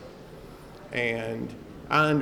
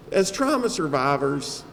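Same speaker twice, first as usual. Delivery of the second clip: normal talking voice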